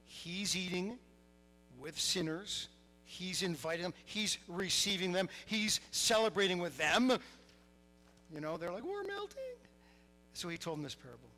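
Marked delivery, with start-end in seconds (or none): 0.0-7.2 mock outrage building louder with each charge; raised, appalled accusing voice; indignant grumbling. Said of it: "the scribes and Pharisees grumbled". 8.8-9.4 very high, squealing put-on voice; comic high-pitched whine; mock melting wail. Mocks the appalled Pharisees' reaction.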